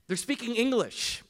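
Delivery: high, emphatic correction; exasperated dad. Retold or imitated. Dad correcting his little daughter, high exasperated insistence. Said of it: "I go".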